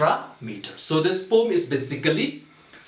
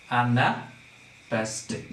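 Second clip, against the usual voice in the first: broken-up term; 2 semitones lower, slower than usual. Shown as a demonstration. Teacher breaks up new term.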